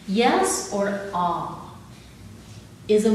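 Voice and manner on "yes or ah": slow drawn-out. Shown as a demonstration. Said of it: "yes is a core posture".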